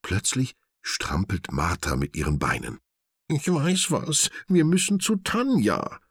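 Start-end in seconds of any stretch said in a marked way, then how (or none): 3.3-6.0 high, eager animal sidekick; excited idea. A narrator's reading. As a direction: announce the plan with bright excitement. Martha has a sudden idea.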